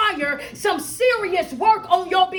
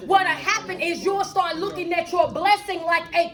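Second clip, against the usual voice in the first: driving, emphatic motivational preaching; fervent preaching; 3 semitones higher than usual. Real, not acted. Coach warning listeners about skipping life's lessons, preaching. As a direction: preach it, leaning hard on key words.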